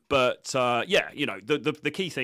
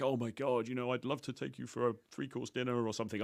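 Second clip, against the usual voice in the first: mock over-serious date offer; a hint of an overeager suitor; overly earnest suitor; 6 dB quieter than usual. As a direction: ham up a too-keen invitation. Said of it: "It's not this, like, super".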